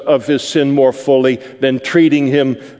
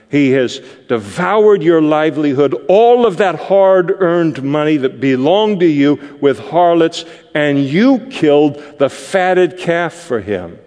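resentful accusation; 3 semitones higher than usual. Acted. Resentful son accuses father.

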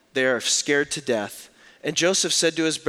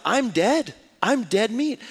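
mock panic; 7 semitones higher, slower than usual. Kid fears punishment.

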